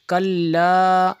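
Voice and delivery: कल्ला with a held double l, slow and stressed; doubled l. Shown as a demonstration. Teacher to students, slow word-by-word Quran recitation. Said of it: "अलग-अलग लफ्ज़ को पढ़ते हैं".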